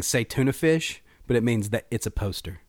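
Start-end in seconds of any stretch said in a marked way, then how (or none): 0.0-1.0 'c'est tuna fish' as say TUNA FISH; 'tuna fish' with plain English vowels; English sound-alike. Shown as a demonstration. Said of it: "sounds like you're saying".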